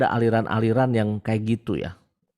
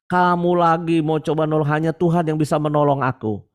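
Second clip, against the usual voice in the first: higher, louder hermit insisting; stubborn hermit; 5 semitones higher, 3 dB louder than usual. Retold or imitated. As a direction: refuse help, certain God will save him. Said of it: "rahib Oon itu berkata". (rahib keras kepala menolak)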